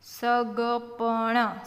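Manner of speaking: slow, open syllables; sounded out. Shown as a demonstration. Teacher breaking a word down, sounded out. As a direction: stretch સગપણ out as sa-ga-pa-na.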